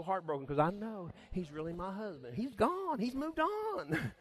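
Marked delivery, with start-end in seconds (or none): 2.3-4.2 high, loud mocking voice of a blunt adviser; mock harsh comforter. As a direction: brush off the widow's grief, loud and high. Preacher mocks a harsh comforter.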